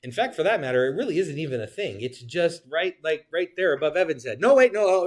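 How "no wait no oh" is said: higher and louder, a playful startled correction; a hammed-up double take; mock surprise. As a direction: act startled, as if the point just jumped. Pretends point keeps moving.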